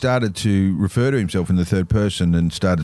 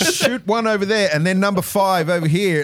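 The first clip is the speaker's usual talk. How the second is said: bad acting; 10 semitones higher than usual. Mocking film dialogue.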